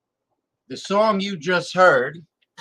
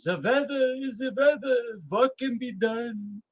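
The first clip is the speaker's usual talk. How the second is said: hammed-up Jewish accent, pitched up; 8 semitones higher than usual. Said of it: "She had a Jewish accent".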